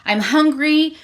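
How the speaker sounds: imitating mild exasperation, pitch jumping up; frustrated. Rave watching Vea walk off with fruit, frustrated. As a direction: complain in mock frustration. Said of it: "so frustrated".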